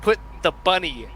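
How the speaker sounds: Nicolas Cage. Retold or imitated. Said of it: "trying to do Nicolas Cage".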